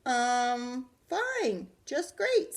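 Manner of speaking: very high, squeaky fake cheer; nervous lie. Arthur lying to Mom on the phone, squeaky. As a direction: cover up a lie badly.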